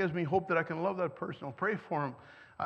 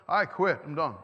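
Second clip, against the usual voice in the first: mock yell; 2 semitones lower, 4 dB louder than usual. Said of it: "he'll yell back and swear".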